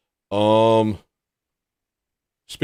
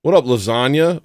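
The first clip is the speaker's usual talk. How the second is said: excited greeting; 4 semitones higher, 4 dB louder than usual. Real, not acted. Greeting another viewer.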